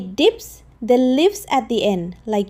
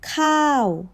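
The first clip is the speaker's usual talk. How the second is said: khao whispered with a falling tone; whispered test word; 3 semitones higher than usual. Shown as a demonstration. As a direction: breathe khao out for the listener. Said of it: "Listen carefully".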